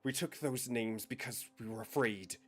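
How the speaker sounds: fearful confession. Acted. NPC confession, building.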